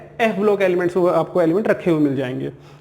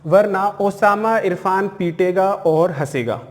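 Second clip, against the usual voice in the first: slow, even recital of the memory phrase; deliberate, paced mnemonic; much slower than usual. Shown as a demonstration. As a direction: spell the trick out slowly. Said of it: "देखो".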